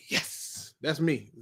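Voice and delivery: breathless whispered yes, then soft mumble; Napoleon Dynamite. Retold or imitated. Fan quoting Napoleon Dynamite, a soft whispered yes. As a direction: lightly imitate a nerdy quiet triumph. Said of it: "Napoleon Dynamite when he was like".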